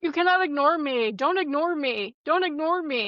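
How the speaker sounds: singsong imitation of repeated scolding; hammed-up plea for attention, swooping pitch; mock indignant demand. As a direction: mimic someone insisting on being heard. Imitating scammer demanding her attention.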